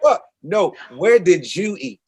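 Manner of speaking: joking fake Jamaican accent asking the local where he ate. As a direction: push back in a hammed-up Jamaican voice, slowing to ask where they ate. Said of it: "in my fake Jamaican accent".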